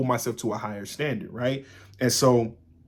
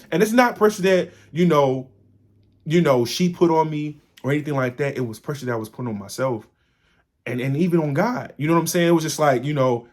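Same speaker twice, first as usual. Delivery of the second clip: rising emphasis; 4 semitones higher, 4 dB louder than usual. Real, not acted. Insisting it's self-imposed pressure.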